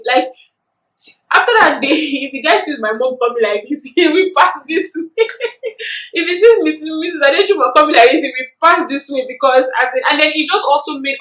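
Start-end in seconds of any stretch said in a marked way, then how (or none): 5.3-6.1 real laugh. Real, not acted. Laughing at the memory.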